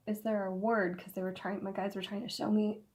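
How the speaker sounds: losing voice, hoarse and strained. Real, not acted. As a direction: talk through a hoarse, tired throat. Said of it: "I'm losing my voice in here".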